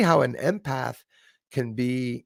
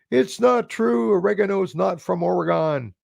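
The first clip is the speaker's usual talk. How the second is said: mocking commenter; 8 semitones higher than usual. Mocking the commenter who called him a liar, high indignant voice. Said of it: "they called me a liar".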